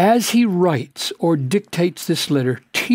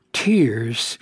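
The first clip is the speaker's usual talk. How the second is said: hushed whisper; 5 semitones lower than usual. Acted. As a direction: breathe the word out in a whisper. Paul writing with tears.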